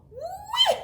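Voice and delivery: high, loud, laughing whee; gleeful shout. Acted. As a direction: squeal with delight. Frosty gleeful in the hut.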